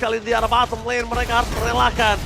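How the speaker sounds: energetic live play-by-play; esports caster. Real, not acted. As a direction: narrate the teamfight live.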